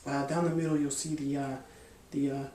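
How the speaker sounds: halting, filler-filled delivery; feigned stutter. Shown as a demonstration. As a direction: fumble for words as if unsure what you're saying. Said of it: "I'm gonna kinda stutter".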